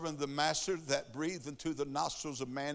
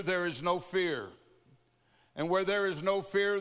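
building, rhythmic preacher's run; preaching cadence. Acted. Preacher rousing the church, rhythmic and building. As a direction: climb each line toward the altar call.

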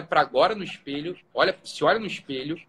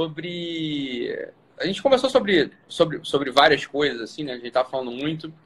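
trailing off; 4 semitones lower, much slower than usual. Real, not acted. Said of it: "perdi o que eu ia falar".

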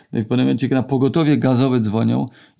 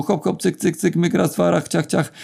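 higher, lightly bouncy patter; playful, higher-pitched bustle; brisk bustling mimicry; 6 semitones higher than usual. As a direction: rattle off the little action noises like busy handiwork. Mimics a brisk, energetic TV installation.

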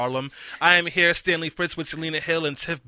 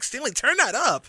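imitating roommate; 8 semitones higher, slower than usual. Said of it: "She was like".

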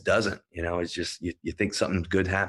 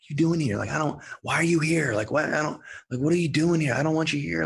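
imitating angry patient; 8 semitones higher than usual. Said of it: "He's pissed".

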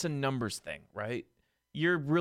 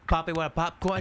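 parrot voice; 3 semitones higher than usual. Pretend. Mocking the popcorn man.

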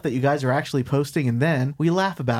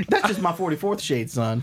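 creepy dad voice; 7 semitones higher than usual. Acted. Playing the Fifty Shades dad.

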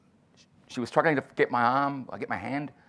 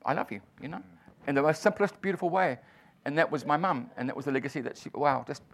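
teary; 2 semitones higher than usual. Real, not acted. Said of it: "I get a bit teary on that one too".

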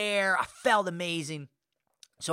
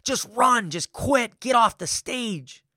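higher and louder, urgent push to flee; the scared part of him begging to bolt; panicked inner voice; 3 semitones higher, 4 dB louder, slower than usual. Retold or imitated. Blanking on stage, his panicked inner voice urging escape. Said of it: "I'm thinking to myself".

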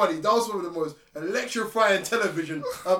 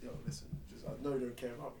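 very low, hushed pillow talk; low and hushed, as if plotting in bed; mock secret whisper; 9 semitones lower, 17 dB quieter, faster than usual. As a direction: murmur it privately, barely audible. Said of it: "I just whisper under the".

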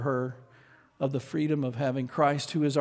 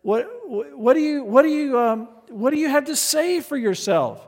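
higher, pressing teacher voice; stern demand; 9 semitones higher, 5 dB louder than usual. Retold or imitated. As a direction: demand an answer from the girl. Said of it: "And he says to her".

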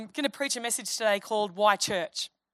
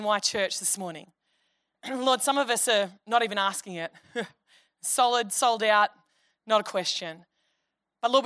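prayer; 3 semitones lower than usual. Acted. Pastor prays before the sermon.

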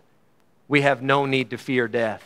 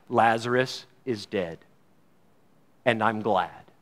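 quiet; 6 semitones lower, 5 dB quieter than usual. Acted. Quoting Jesus, then repeating the line.

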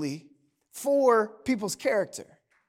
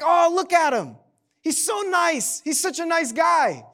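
gushing wife; 5 semitones higher than usual. Retold or imitated. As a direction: swoon over him in her voice. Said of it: "She's like".

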